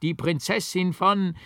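high, loud manic laughter; madman's frightening cackling laugh; wild laugh. A narrator's reading. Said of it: "Da lachte er wild auf".

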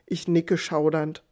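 plain reading voice

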